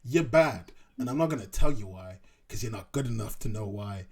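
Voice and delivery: put-on New York accent, loud opening; haughty critic in a mock New York accent. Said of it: "That's my New York accent".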